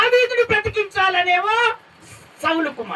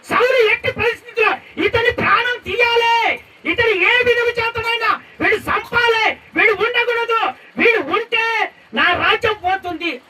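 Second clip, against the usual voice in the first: raised, shouted vow to kill David; angry Saul; 3 semitones higher than usual. Acted. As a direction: bark it out as a jealous king. Saul's murderous intent voiced. (కోపంతో అరిచే సౌలు)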